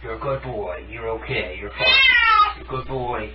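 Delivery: comforting tone. Real, not acted. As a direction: hush him gently so he stays calm. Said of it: "talk to them in, like, a comforting tone".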